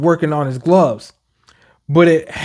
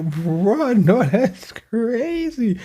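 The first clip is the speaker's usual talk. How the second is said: laughing bruh; 6 semitones higher, much slower than usual. Retold or imitated. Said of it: "I'm like".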